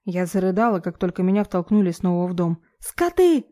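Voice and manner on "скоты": высокий громкий крик; выкрикни в слезах; отчаянный крик. A narrator's reading. Героиня кричит в отчаянии. (отчаянный высокий выкрик)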